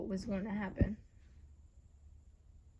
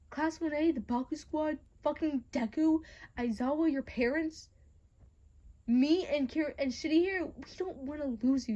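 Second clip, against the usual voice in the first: heated plea; 4 semitones higher, 4 dB louder than usual. Acted. Acted heated plea listing who cares.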